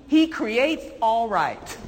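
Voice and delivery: slow, spaced dictation pace; slow dictation for note-taking; dictated slowly. Shown as a demonstration. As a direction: spell it out slowly so they can write it. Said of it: "write that down".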